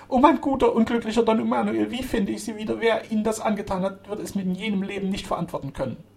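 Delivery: high wailing lament, loud at first; acted loud sobbing. A narrator's reading. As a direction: cry out in anguish as if sobbing. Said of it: "unter lauten Schluchzen rief".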